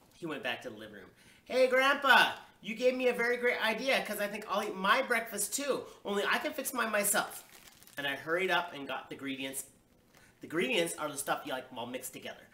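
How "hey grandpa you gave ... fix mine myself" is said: put-on high, loud, enthusiastic kid; eager child. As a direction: pipe up loudly with a great idea. Child eagerly calls to grandpa.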